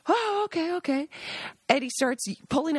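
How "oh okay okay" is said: mock agreement. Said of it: "We gotta get back".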